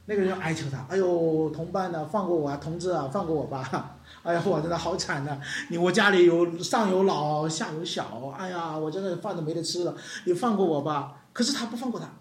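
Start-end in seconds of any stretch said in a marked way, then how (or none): 0.9-11.2 begging debtor. Acted. Debtor begs for mercy.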